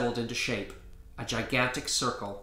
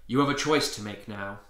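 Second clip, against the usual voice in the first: grave; 2 semitones lower than usual. Acted. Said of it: "he said gravely".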